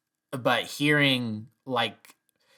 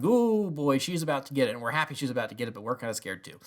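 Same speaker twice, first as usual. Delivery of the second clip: gleeful nervous inquisitors; 2 semitones higher, faster than usual. Retold or imitated. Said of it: "in the background going".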